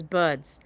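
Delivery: "buds" for birds, the r dropped; trouble saying birds. Shown as a demonstration. Confessing the one word they get teased for, birds pronounced "buds". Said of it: "I have trouble saying".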